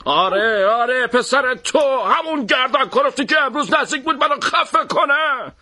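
a hint of fury, pitch climbing; angry. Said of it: "با عصبانیت گفت".

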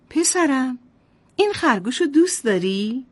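lightly voiced sweet mother; gentle mother. Mother asks her son about the rabbit, lightly voiced.

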